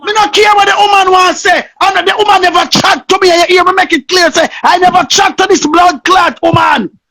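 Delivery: a raging rant at the woman; real furious tirade; furious cursing shout. Real, not acted.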